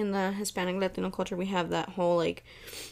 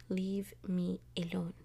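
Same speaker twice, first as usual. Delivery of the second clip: whispered; 8 dB quieter than usual. Real, not acted. Jokingly defends latte.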